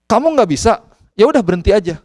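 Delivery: stern father. Retold or imitated. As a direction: play a firm dad calling the bluff. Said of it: "saya suka agak keras memang". (menirukan ayah yang agak keras)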